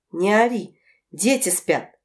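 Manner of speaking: ordinary delivery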